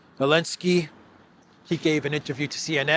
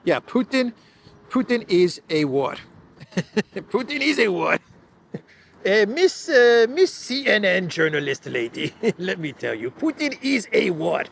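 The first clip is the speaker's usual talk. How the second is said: high, loud mock Ukrainian accent with laughs; hammed-up Zelensky lecturing the journalist; 5 semitones higher, 4 dB louder than usual. Podcaster mocking Zelensky talking to the CNN journalist in a high accent. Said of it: "my Zelensky voice".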